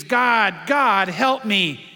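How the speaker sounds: drawn-out mock cry for help; half-hearted stretched-out call to God; retold scream. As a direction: imitate a desperate plea, slow, without full screaming. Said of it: "And finally he screams".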